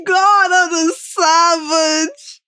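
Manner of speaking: slow words through tears of laughter; crying with laughter, high pitched; laughing. Real, not acted. Reacting, laughing hard.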